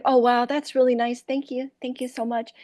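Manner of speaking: high, sweetly grateful Iowa waitress; softening thanks in a put-on Iowa voice; put-on Iowa accent. Waitress thanking tippers who threw money, grateful Iowa accent. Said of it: "I'd turn on my Iowa".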